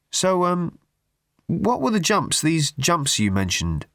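rushing to move on; Arthur changing subject. A narrator's reading. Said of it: "as quickly as he could".

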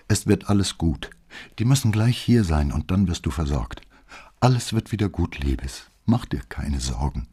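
tender comfort for wounded Brett. Acted. Comforting injured lover.

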